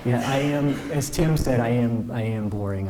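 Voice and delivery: chuckling through the words; laughing. Real, not acted. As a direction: laugh it off while admitting it. Self-deprecating joke, audience laughing.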